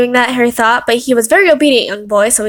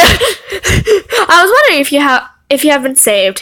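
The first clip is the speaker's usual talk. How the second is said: hammed-up cheery preacher; 4 semitones higher, 3 dB louder, slower than usual. Reading Hagrid's preachy line.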